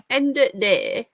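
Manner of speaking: slow "end of day" in a Brummie accent. Shown as a demonstration. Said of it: "it's Brummie, isn't it?".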